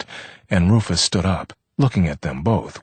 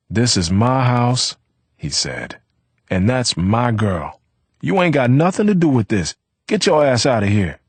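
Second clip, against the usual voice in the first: angry threat; 7 semitones higher, 4 dB louder than usual. A narrator's reading. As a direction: lay down ownership, then order him out. Rufus ordering Vivaldo out.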